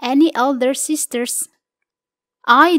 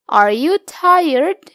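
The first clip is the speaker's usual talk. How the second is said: slow model reading; 3 semitones higher, much slower than usual. Shown as a demonstration. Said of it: "Gunakan kalimat tanya berikut".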